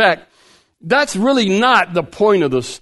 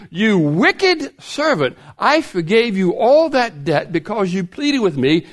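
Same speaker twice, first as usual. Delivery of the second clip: mild rebuke; 4 semitones higher than usual. Acted. Master rebukes the servant.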